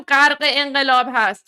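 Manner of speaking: غرق انقلاب with the native Persian q; Persian pronunciation. Shown as a demonstration. Answering Iranian critics that she knows, غرق with throaty q.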